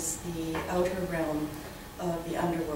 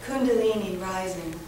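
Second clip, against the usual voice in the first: measured poem recital with deliberate pauses; slightly lifted, careful poet's reading voice; poetry reading; 4 semitones higher than usual. Acted. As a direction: read it line by line, letting phrases hang. Reads second poem aloud.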